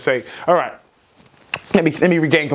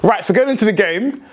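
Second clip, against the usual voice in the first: keyed-up, a bit higher and pressing on; getting heated; 5 semitones higher than usual. Real, not acted. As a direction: still buzzing from the win. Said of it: "I'm getting heated".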